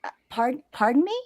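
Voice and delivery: soft, hesitant mock politeness; timid retold reply. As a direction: act out a quiet, stumbling pardon. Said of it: "and I went".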